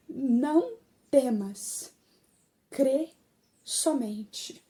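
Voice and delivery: devagar, com pausas, baixando no fim; solene. Retold or imitated. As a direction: palavras de Jesus ditas com calma e peso. Jesus's words, first solemn saying. (manso e solene)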